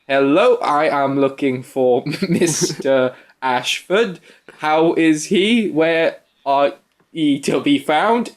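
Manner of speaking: slow and stilted, stressing odd parts of words; bizarre stilted delivery. Retold or imitated. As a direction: play a policeman who doesn't know what his words mean. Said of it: "he has the most bizarre delivery".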